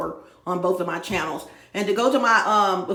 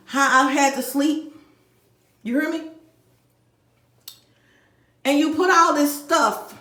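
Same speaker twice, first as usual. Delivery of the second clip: real furious rant; 5 semitones higher than usual. Real, not acted. Angry rant resumes.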